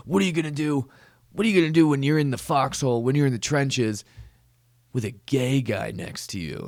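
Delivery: put-on panicked voice of worried people; mocking worried bigot. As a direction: ape the fretting old-timer.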